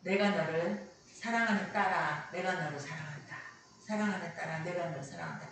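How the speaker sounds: a gentle, low-voiced assurance; tender divine voice. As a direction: softly reassure a beloved child. Retelling God's voice heard alone.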